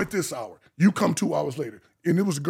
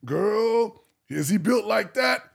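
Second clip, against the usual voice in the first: raised, teasing gossip voice; gossiping girl; 5 semitones higher, 5 dB louder, slower than usual. Retold or imitated. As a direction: ask it like nosy gossip. Retold bridal shower gossip.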